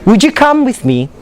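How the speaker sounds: "Would you" said as "wood-joo" in a full question; linked d-y sound. Shown as a demonstration. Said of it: "it becomes J".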